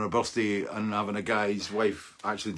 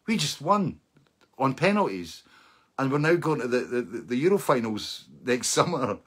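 stunned disbelief; 2 semitones higher than usual. Retold or imitated. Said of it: "I'm going".

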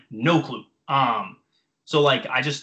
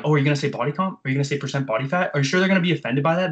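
quick, mock-condescending questions; 3 dB louder, faster than usual. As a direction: imitate professors nitpicking in rapid questions. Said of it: "be so condescending and interrupt me".

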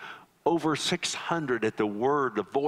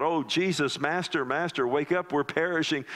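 higher, pleading cry to a sleeping master; frightened cry for help; 6 semitones higher than usual. Retold or imitated. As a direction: disciples beg Jesus to wake in the sinking boat, frantic. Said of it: "they're crying out".

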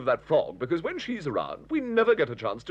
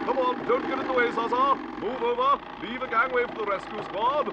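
raised, self-important ordering; bossy bustle; 4 semitones higher than usual. Acted. Hector with the ladder to Zaza, bossy bustle. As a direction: order everyone aside in a high, busy voice.

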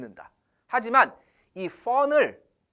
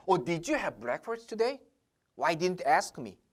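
slow example; 2 semitones lower, 6 dB quieter, much slower than usual. Retold or imitated. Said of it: "왜 나한테 물어봤지".

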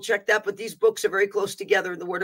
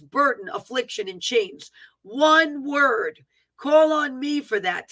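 prophetic proclamation; 3 semitones higher than usual. Acted. Preacher relaying promise and judgment to the nation, proclaiming. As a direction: declaim in emphatic phrases that fall away.

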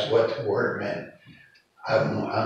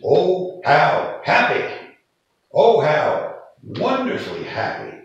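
higher, louder, savoring happy; joyful exclamation; 5 semitones higher, 6 dB louder than usual. Shown as a demonstration. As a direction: exclaim it with delighted wonder. Acting out the meaning of blessed.

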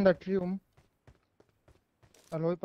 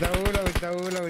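slow calling out; 3 semitones higher, 7 dB louder than usual. Real, not acted. Calling out to teammates.

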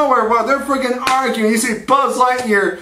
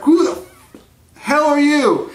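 mildly indignant action hero, pitched up; raised, incredulous demand; John Spartan; 5 semitones higher than usual. Acted. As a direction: challenge a stranger in startled disbelief. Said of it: "John Spartan's like".

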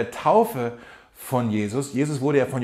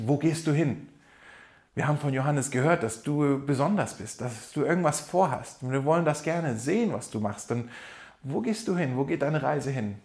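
quiet inner question; 6 dB quieter than usual. Retold or imitated. Voices disciples' inner question.

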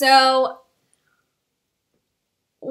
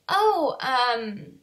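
hesitant, puzzled polite question; confused; 4 semitones higher, slower than usual. Retold or imitated. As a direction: imitate being caught off guard, lifting the pitch at the end. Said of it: "I was really confused".

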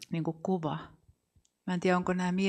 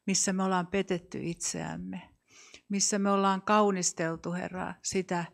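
steady, measured praying voice addressing the Lord; earnest congregational prayer. Acted. Leader prays before the congregation, earnest prayer voice. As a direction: pray aloud for the room, unhurried and sincere.

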